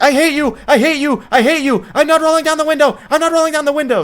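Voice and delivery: a kid screaming at mom in the car, mock tantrum; bratty screaming tantrum. Retelling the daughter screaming at her mom, hammed-up yell.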